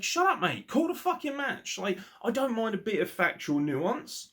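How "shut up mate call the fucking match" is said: mock exasperation. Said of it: "it's like".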